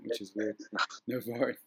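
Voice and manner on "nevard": Nevard with a Farsi accent, o vowel, soft rolled r. Shown as a demonstration. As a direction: try Nevard the Farsi way, laughing. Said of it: "trying to say it with a Farsi accent".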